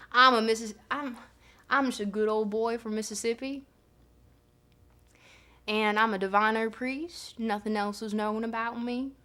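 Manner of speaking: lightly voiced Southern good old boy; Mississippi good old boy. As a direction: play the easygoing Mississippi priest, lightly. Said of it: "I wanted Euthyphro to be Southern".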